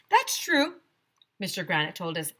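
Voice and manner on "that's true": high, louder playful teacher; teacher's voice. Acted. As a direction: play along like a teasing teacher.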